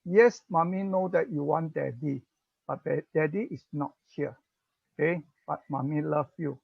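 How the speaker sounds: put-on soft, gentle comfort to a toddler; a lightly voiced, gentle mommy; soothing mother. Shown as a demonstration. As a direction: hold him and calm him softly. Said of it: "you tell him that".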